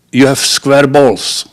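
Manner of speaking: slow, deliberate punchline in a lightly voiced old lady. Old lady baiting the manager with a bet, lightly voiced. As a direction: drag out the punchline slyly.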